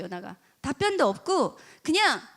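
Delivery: normal talking voice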